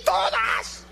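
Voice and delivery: put-on high, flustered young man's voice; startled young man. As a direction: squeak it out, caught off guard. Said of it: "Y él se asustó y dijo".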